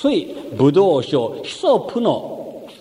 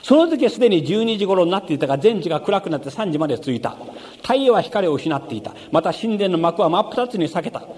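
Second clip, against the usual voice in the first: scripture reading; 2 semitones higher than usual. Acted. Reads Luke aloud in sermon.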